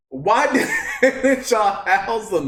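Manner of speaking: slow question broken by a laugh. Real, not acted. Vlogger asking the residents while laughing. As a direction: crack up halfway through the question.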